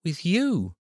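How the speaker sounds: put-on high, hopeful, surprised girl; disbelieving little girl; surprised child. A narrator's reading. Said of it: "the surprise in her voice".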